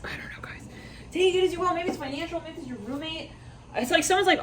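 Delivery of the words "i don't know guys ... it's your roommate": hushed, half-voiced whisper; whispered aside. Real, not acted. Reader guessing aloud to viewers about money or a roommate, whispering. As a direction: drop to a very soft whisper, unsure.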